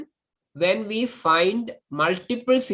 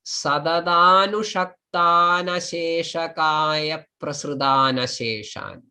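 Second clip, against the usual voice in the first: joined verse recitation. Shown as a demonstration. Teacher reading the shloka to students, measured recitation. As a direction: recite it as one long connected block.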